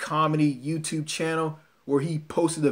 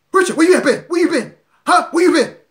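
very loud, very high, shrill, rapid-fire delivery; 14 semitones higher, 10 dB louder than usual. Retelling a woman at work questioning him when he came back, as a loud, fast-talking woman. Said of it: "she had a loud mouth. She talked too fast".

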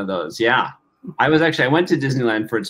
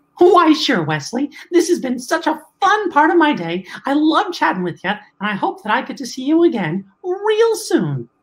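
very high, squeaky voice with a bouncy lilt. Asked for a sample of their voice as Mickey, the speaker obliges: Mickey Mouse voice. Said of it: "could you provide a sample of your voice as Mickey?".

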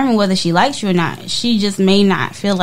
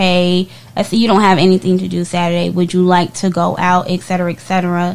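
ordinary talk

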